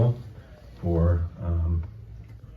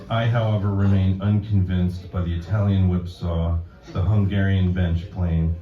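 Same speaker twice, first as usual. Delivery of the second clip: measured, projected poem recital, louder than chat; deliberate deadpan delivery, phrase by phrase; poetry reading; 3 dB louder than usual. Acted. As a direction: read a mock-solemn poem to an audience. Reads own poem to audience.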